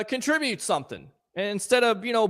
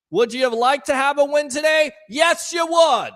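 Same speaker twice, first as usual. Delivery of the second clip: mocking shout; 4 semitones higher, 4 dB louder than usual. Real, not acted. Host shouting at fans upset over the loss.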